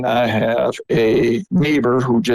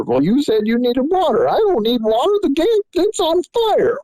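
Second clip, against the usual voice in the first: retold argument; 12 semitones higher than usual. Retelling mom and dad exchange.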